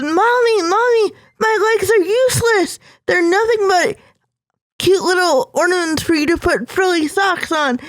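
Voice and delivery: put-on a small girl despairing to her mom; tearful child's plea.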